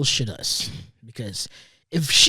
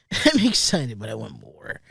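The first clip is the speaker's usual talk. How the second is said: laughing repeat; 4 semitones lower than usual. Shown as a demonstration. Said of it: "Like, I'm excited, but I want more".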